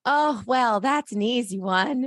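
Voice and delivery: lightly put-on cheery dwarf; happy dwarf. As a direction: answer with a hint of happy character voice. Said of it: "I had to put on my happy voice".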